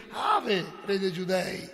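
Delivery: mocking hail. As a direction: hail him with sneering fake reverence. Soldiers mock Jesus.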